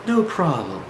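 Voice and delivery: lightly imitated soothing guru; a hint of a guru's manner; guru talk. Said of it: "that's how he talks, what I call the guru talk".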